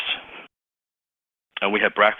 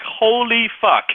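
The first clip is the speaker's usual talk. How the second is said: stunned thought; 12 semitones higher, slower than usual. Retold or imitated. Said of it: "now in my mind".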